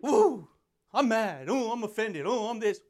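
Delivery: mocking easily offended people; whiny mock offence; mock offended whine. Mocking people who get mad at him, whiny mock offence. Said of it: "they get mad".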